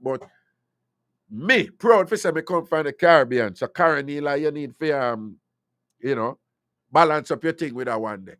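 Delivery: ordinary talk, nothing marked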